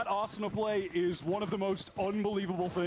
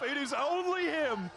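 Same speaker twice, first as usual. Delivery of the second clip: excited; 5 semitones higher than usual. Real, not acted. Hyped caster call.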